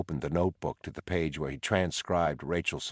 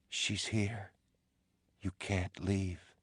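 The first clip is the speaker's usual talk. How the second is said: eerie wife's voice; 3 semitones higher, 7 dB quieter, slower than usual. Acted. Dolores's ghost voiced by narrator.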